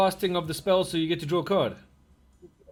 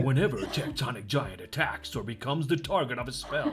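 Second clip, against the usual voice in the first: movie trailer voice; 3 semitones lower than usual. Pretend. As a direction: read the card like an epic trailer. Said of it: "I can do it in the movie trailer voice".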